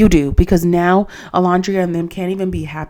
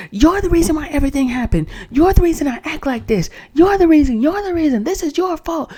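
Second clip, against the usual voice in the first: put-on accusing girlfriend; 9 semitones higher than usual. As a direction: parody her blaming him, pitch way up. Imitating Huda's accusing outburst.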